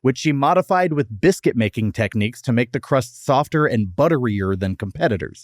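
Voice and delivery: scripted history read, neatly phrased; podcast fact read. Acted. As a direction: read it out like a prepared segment. Reads the prepared history segment.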